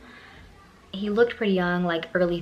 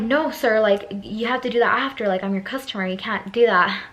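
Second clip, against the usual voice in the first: louder, insistent retold objection; firm protest; 3 semitones higher, 4 dB louder than usual. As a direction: stand up to him, emphatically.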